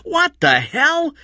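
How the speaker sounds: high, slow shocked outburst. Acted. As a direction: Eddie stunned as Kathy talks, shocked. Eddie shocked at Kathy.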